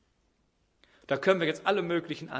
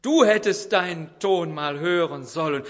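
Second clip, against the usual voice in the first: retold husband roaring at his wife; father bellowing; 4 semitones higher, 10 dB louder than usual. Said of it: "Da brüllt der Vater".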